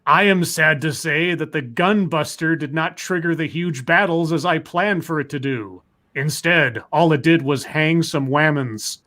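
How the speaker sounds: lightly voiced evil genius, half laughing; a hint of a gloating supervillain reading his plan; unhinged villain. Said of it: "I have to do my evil voice".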